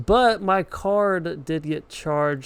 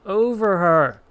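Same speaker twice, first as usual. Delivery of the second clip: game-fight shout; 5 semitones higher, 7 dB louder, slower than usual. Real, not acted.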